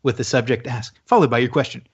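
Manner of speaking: fast, rattled-off ad-style read; segment intro read. Acted. Host reading the recurring ask segment intro to listeners, fast announcer read. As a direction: race through the stock segment blurb like an announcer.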